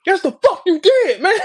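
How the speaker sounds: high, loud, slow laughing comeback; imitating Twerk calling Swamp out, laughing; laughing retort. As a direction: mimic a friend calling out the lie. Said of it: "And Twerk like".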